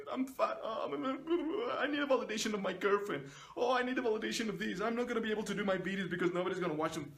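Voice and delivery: high, fast mock whimper with laughter; mock a needy creator, half laughing; whiny insecure person. Mocking insecure people who need validation, whiny and fast. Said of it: "Why the fuck would you be like".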